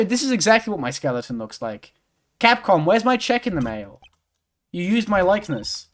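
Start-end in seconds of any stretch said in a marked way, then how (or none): 2.4-5.9 higher, playfully outraged demand; mock indignation. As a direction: make a mock complaint, pitched up. Mock complaint to Capcom.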